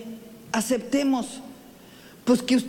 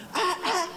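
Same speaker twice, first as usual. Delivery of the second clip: dog barking; 6 semitones higher than usual. Retold or imitated. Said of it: "todos le ladraban".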